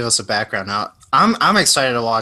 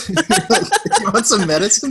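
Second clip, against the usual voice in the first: put-on creepy old man; 9 semitones higher, slower than usual. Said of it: "I just sound like a creepy old man".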